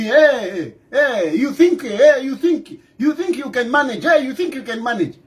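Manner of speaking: a light mocking jeer with a laugh; mocking taunt. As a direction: mimic the palace teasing him, lightly. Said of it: "they are mocking me".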